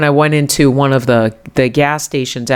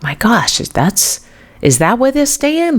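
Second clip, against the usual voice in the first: whispered gasp rising to a high alarmed question; 9 semitones higher than usual. Retold or imitated. Mother seeing her daughter's open garage, whispered alarm. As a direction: breathe it out in shock, then pitch up sharply.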